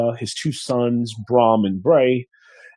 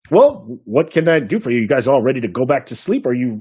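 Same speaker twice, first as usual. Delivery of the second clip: hearty innkeeper. Acted. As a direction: ask what they'll have. Innkeeper serving party.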